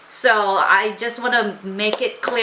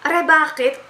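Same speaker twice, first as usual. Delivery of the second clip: Baler phrase; 7 semitones higher than usual. Shown as a demonstration. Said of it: "kaya ko pa rin naman sabihin".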